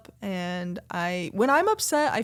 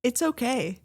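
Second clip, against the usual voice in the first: dismissive okay; 3 semitones higher than usual. Shown as a demonstration. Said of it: "we're gonna act for a little bit".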